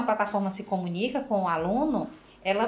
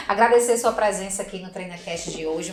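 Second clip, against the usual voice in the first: laughing thanks; 2 semitones lower than usual. Real, not acted. Host thanks guest, laughing.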